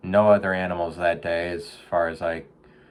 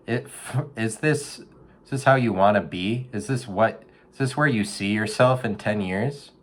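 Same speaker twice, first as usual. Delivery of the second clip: motivational speech to a raccoon; 4 semitones higher than usual. Retold or imitated. Urging a raccoon out of the gutter, hyped coach voice. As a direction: pump the raccoon up like a gym coach. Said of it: "That's what I say".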